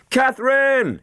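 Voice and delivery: put-on high, loud yell for the missing girl; yelled name. A narrator's reading. Matt yells for Catherine in the burning house, loud. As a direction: call her name through the smoke. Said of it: "he yelled".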